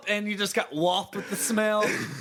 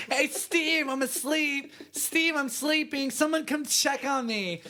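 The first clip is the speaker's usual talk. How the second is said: mock fake sleeper; 5 semitones higher than usual. Mock voicing drunk friend fake sleep.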